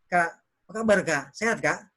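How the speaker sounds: friendly, respectful greeting to an elder; respectful intonation. Shown as a demonstration. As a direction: greet with a little added lilt. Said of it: "kita bilang dengan intonasi sedikit".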